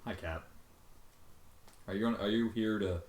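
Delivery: normal talking voice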